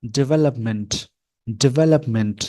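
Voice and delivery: डेवलपमेंट as "de-VE-lup-ment"; American pronunciation. Shown as a demonstration. Teacher saying the word to show learners, American pronunciation. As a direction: stress the second syllable of डेवलपमेंट, "de-VE-lup-ment". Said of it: "इसको मैं बोलकर दिखाता हूँ".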